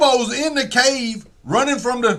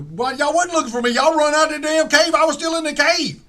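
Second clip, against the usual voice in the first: mildly higher whiny Bilbo; 7 semitones higher than usual. Retold or imitated. Bilbo complains they left him.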